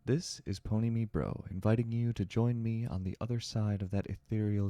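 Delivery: slow, drawn-out horror host intro; spooky show host. Acted. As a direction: welcome them in like a creepy host.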